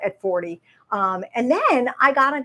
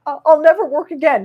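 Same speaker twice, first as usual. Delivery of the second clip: dramatic despair; 5 semitones higher, 9 dB louder than usual. Retold or imitated. Retold despair to husband.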